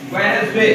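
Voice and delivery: वेडनेसडे said as "Wensday", D dropped; silent D. Shown as a demonstration. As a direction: leave the first D out of वेडनेसडे. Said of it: "इसमें आप डी नहीं पढ़ते".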